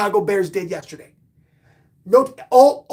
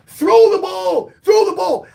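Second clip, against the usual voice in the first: loud, slow, higher frantic yell; crazed shout; 8 semitones higher, 6 dB louder than usual. Retold or imitated. Fan yelling at the quarterback on TV, crazed shout. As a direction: scream it at the TV like a maniac. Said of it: "I'm like".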